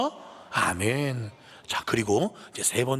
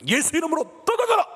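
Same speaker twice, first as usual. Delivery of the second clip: high, forceful shouted command; declaration prayer; 14 semitones higher, 4 dB louder than usual. Shown as a demonstration. Preacher demonstrating declaration prayer to the congregation, shouted command. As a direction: proclaim it sharply, far above normal pitch. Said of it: "이게 바로 선포 기도예요".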